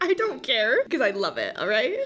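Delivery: amused, defiant Irish lilt; playful Irish accent. Shown as a demonstration. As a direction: stand your ground in an Irish accent. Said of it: "in an Irish accent".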